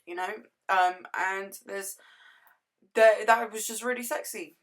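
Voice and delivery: lost voice after a party, hoarse. Real, not acted. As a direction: speak through a hoarse, worn-out throat. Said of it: "now I've lost my voice".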